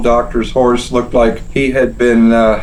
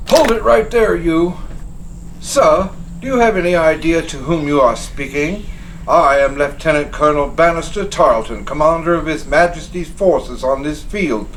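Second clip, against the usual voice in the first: lightly voiced pompous British officer, higher; haughty officer; 4 semitones higher than usual. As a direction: announce your rank with lofty pride. British officer announcing himself.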